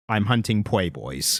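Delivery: slow, with a cartoon speech impediment; Elmer Fudd. Host quotes the comic's opening line, Fudd impediment. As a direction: say "poi boys" for playboys, L turned to W. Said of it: "It was just the Elmer Fudd voice".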